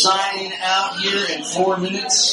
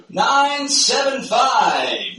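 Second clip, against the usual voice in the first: booming prize announcer; 3 semitones higher, much slower than usual. Real, not acted. Raffle number called out.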